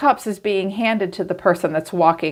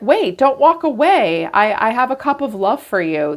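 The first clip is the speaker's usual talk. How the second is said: pleading ex imitated; 5 semitones higher than usual. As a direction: beg them lightly not to leave.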